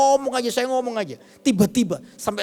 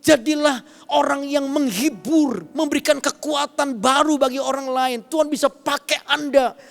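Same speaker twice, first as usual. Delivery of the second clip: preaching; 5 semitones higher than usual. Acted. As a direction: urge the congregation on, preacher's full voice. Preacher exhorts the congregation.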